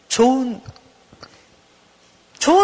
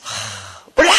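put-on sulky child; much slower than usual. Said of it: "이렇게 들어간단 말이에요".

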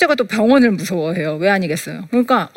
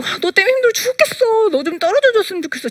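exasperated complaint; 11 semitones higher than usual. Retold or imitated. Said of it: "아무렇지도 않게".

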